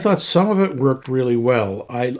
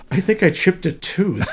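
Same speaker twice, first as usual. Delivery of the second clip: laughing quote; 4 semitones higher than usual. Retold or imitated. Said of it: "I like her line".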